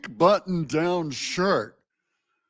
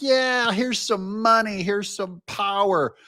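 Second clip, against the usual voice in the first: mock cheering; 7 semitones higher than usual. Everyone rewarding the Democrats' slogan, mock cheering. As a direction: cheer along as the adoring crowd. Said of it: "And everyone's like".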